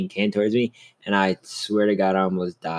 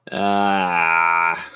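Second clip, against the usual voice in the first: longing groan; 3 dB louder than usual. Real, not acted. Longing groan over wanting a dog.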